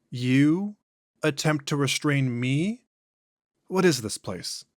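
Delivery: slow, drawn-out otherworldly voice; an ancient thing speaking through a man; eerie, unhurried entity; possessed alien voice. Acted. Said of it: "voice and inflections are noticeably different".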